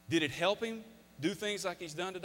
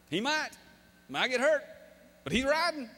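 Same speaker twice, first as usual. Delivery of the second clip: retold stubborn insistence; 9 semitones higher, 4 dB louder than usual. Father insists against worried wife.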